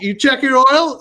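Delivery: pushy, half-yelled question; imitated yelling mechanic. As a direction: imitate a brusque mechanic demanding an answer. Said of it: "Why is he yelling at me?".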